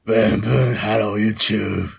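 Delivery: unconvincing YouTuber intro voice; Hikakin impression. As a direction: lightly mimic a video catchphrase. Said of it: "ヒカキンじゃない気がしてきた".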